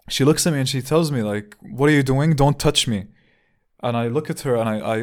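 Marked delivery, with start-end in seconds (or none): 1.6-3.1 put-on annoyed old woman. Old woman scolding him.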